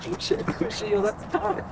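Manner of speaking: high startled yelp at the heat. Real, not acted. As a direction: jump at the burn. Grabbing something hot.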